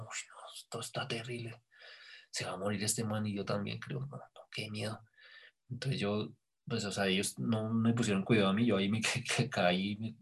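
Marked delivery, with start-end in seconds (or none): 0.0-5.0 retold fear. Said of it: "Sentí como un miedo".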